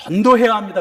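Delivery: firm, insistent 전도해야, punched out loud.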